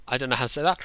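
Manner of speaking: quick laugh through the words. Real, not acted. To viewers, stumped by a username, laughing fast. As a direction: rush it out while laughing at yourself.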